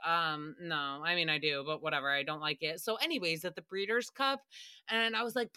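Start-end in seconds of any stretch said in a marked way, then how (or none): 0.1-2.8 Jeff. Retold or imitated. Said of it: "And Jeff was like".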